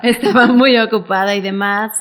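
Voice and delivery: amused, laugh-filled reply. Real, not acted. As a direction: say it while still laughing. Laughs at her busy past.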